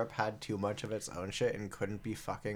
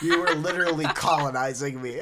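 laughing; 4 semitones higher, 6 dB louder than usual. Retold or imitated. Laughing joke.

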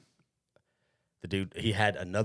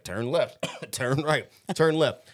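lightly voiced satnav giving directions; TomTom GPS; 4 semitones higher, 4 dB louder, much slower than usual. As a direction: imitate a GPS, building higher and louder. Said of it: "so TomTom's like".

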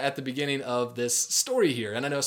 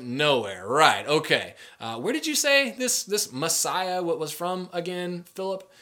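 snarky. Retold or imitated. Nathanael mocking Philip's Messiah claim, sarcastic. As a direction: roll your eyes at a friend's big claim. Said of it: "starts kinda getting a little snarky".

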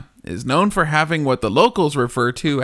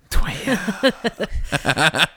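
breathy whispered echo; 4 semitones higher than usual. Pretend. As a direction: whisper it back with a laugh. Echoing the chant, whispered.

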